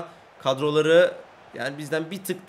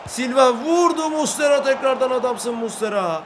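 1 alarmed shout; 5 semitones higher, 3 dB louder than usual. Real, not acted. Kaleci kurtarışı.

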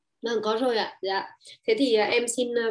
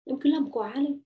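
higher, louder scoffing brush-off; dismissive scoff; 4 semitones higher, 4 dB louder than usual. Retold or imitated. Partner dismissing a worry, mock scoffing. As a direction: wave the worry away, mockingly. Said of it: "một cái biện khác nữa là".

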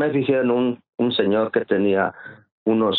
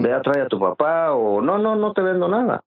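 put-on imagined old man's refusal; 2 semitones higher than usual. Boy imagines landowner refusing him.

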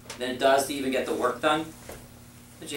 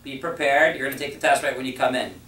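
assertive directions. Shown as a demonstration. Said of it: "Was there any question mark".

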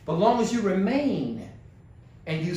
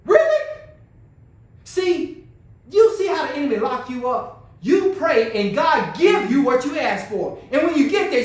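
raised, urgent sermon delivery; impassioned preaching; 6 semitones higher, 5 dB louder than usual. Real, not acted. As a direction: press the congregation with rising urgency. Preaches at full force.

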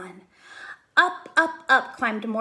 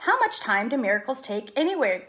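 upset cry; 3 dB louder than usual. Acted. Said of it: "cried Mortimer".

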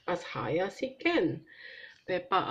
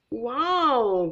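a louder amazed gasp; a pony's wide-eyed wow; 4 semitones higher, 4 dB louder than usual. Acted. Pedro, watching Kylie leap, gasps a wow. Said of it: "gasped Pedro".

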